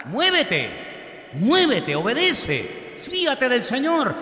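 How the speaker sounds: urgent exhortation. Real, not acted. Preacher urging believers to obey, emphatic exhortation. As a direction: separate commands, slowing into the last ones.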